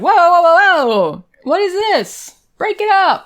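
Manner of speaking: high, loud call to break it up; mock alarm, stepping between them; breaking up a fight.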